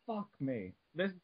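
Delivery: hammed-up, overwrought recital; dramatic reading. Friend keeps up the dramatic Wikipedia reading, hammed-up. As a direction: read it like a grand saga. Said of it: "this is a bit of a dramatic reading".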